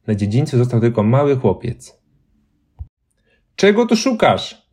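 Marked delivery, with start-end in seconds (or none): 3.6-4.7 high, eerie ghost voice asking; a phantom demands to know; ghostly question. A narrator's reading. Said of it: "zapytała postać".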